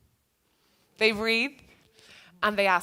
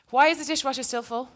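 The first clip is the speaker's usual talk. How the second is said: higher and a bit pushier, blaming tone; accusing question; 4 semitones higher, 3 dB louder than usual. Shown as a demonstration. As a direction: snap it out like a complaint at home. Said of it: "instead of saying".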